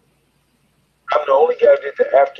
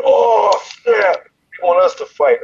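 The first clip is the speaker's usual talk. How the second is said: a half-crying, excited mock yelp, pitched up; 5 semitones higher, slower than usual. BJ Penn hears who he fights, with an excited yelp. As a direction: squeal it out like sudden shocked delight. BJ reacting to the matchup.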